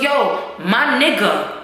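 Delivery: slow, drawn-out mock greeting with a laugh; Pancho's greeting. Pancho greeting Tommy, slow, drawn-out, laughing. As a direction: drag it out the cringey way. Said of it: "Why he said that like that".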